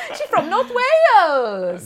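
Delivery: loud, high, drawn-out mock Welsh accent; South Wales accent. Attempting the listener's North Wales accent, comically off Welsh accent. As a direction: belt out a hammed-up Welsh accent, slowly. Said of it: "That's the South Wales accent".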